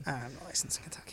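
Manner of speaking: fast hushed whisper; mock whisper. Echoing his friend's warning in a quick hushed whisper.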